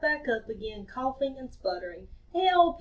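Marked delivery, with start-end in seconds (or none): 2.3-2.8 gasped help. Acted. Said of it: "he gasped".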